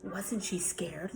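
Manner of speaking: hushed, slow little whisper; scared whisper. Acted. Little sister whispers to her brother during the scary part. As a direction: breathe the question, half afraid.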